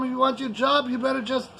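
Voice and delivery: an employer shouting down his staff; angry boss yelling. Retold or imitated. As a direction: bark out the ultimatum. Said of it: "escalate to the point where I tell them".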